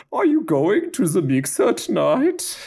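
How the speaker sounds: a hint of a German accent as an invitation. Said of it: "take it kind of in a Flula Borg direction".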